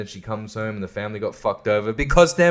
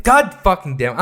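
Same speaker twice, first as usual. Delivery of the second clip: higher and louder, God fucking damn it spat out; angry curse; 5 semitones higher, 4 dB louder than usual. Real, not acted. Vlogger fed up with the Oscars film, cursing out loud. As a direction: let God fucking damn it burst out in real annoyance. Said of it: "I'm pissed off".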